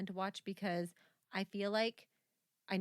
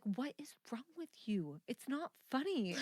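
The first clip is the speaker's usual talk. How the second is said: retold scolding; 3 semitones higher, 4 dB quieter than usual. Companion scolding her for laughing at movie, disapproving. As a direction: imitate an unamused companion, dragging the words. Acted quote of disapproving date.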